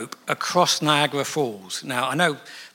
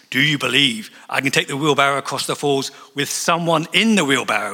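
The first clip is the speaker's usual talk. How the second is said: showman calling out; 5 dB louder than usual. Retold or imitated. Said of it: "And he says".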